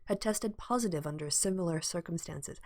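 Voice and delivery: measured, formal news read; slipping into a news-bulletin delivery; newsreader voice. Shown as a demonstration. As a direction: read it like the evening news anchor. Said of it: "I'm going into newsreader voice".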